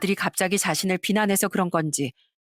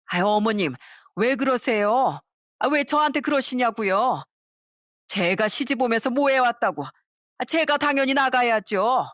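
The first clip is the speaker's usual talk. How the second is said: 억울한 시어머니; 4 semitones higher than usual. Acted.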